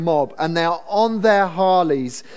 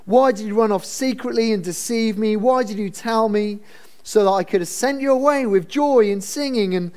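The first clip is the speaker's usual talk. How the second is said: oily; 5 semitones higher than usual. Acted. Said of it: "I wanna say this speech is oily".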